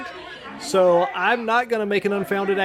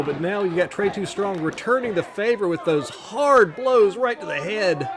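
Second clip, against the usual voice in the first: wrestling commentator. Acted.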